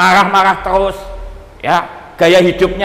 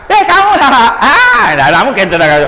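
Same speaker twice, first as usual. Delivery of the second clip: mock angry person; 6 semitones higher, 5 dB louder than usual. Preacher acts out an angry person.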